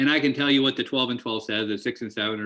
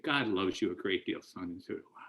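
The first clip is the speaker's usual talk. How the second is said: softer, hushed words of love; retold whisper; 3 semitones lower, 10 dB quieter than usual. Old man to the sobbing newcomer, softly whispered. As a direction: say it hushed, right into his ear. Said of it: "he whispers in my ear".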